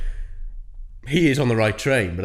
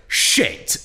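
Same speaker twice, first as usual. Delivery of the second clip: mock exclamation; 9 semitones higher than usual. Imitating the guy on the phone, mild mock shout. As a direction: blurt it like a startled bloke. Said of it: "He's like".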